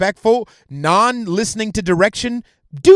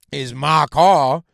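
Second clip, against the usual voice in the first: loud, slow mock African American accent; mocking accent impression; 4 semitones lower, 5 dB louder, much slower than usual. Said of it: "that's what she fucking sounded like".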